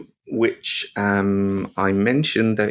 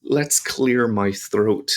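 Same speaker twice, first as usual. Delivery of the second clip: throat-clearing; slower than usual. Shown as a demonstration. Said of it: "making the ... sound".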